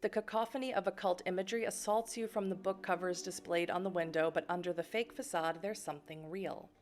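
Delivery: even, measured game narration; story narration. A narrator's reading. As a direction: read it out like a storyteller. Reads game narration aloud.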